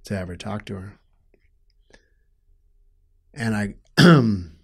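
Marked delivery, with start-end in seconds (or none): 0.1-1.0 choked whisper. Real, not acted. Telling the host about his last chance with mom, whispered. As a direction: voice drops to a breathy whisper.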